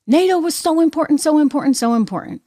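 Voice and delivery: high singsong start, stepping down each time; mock gushing refrain. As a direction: parrot it as a mocking tune. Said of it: "Very different kind of tune being sung".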